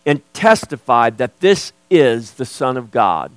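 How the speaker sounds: emphatic sermon delivery with measured pauses; preaching. Real, not acted. Preacher telling church the Spirit bears witness, emphatic preaching. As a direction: preach it with firm stresses on key words.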